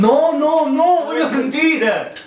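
laughing. Real, not acted. Laughing protest.

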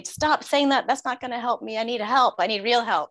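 put-on high, whiny voice of an upset kid; high, pleading child's protest; mimicking upset son. Son in meltdown, voiced by mother.

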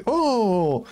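drawn-out oh mimicking the assistant; imitated assistant moan. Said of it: "Tu vois, elle fait". (« oh » imité, voix relevée)

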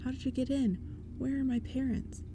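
high, loud, frantic questions; urgent demand. A narrator's reading. Boy shouting at intruders about his parents, frantic. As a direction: push for answers, scared and angry. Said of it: "Lee demanded".

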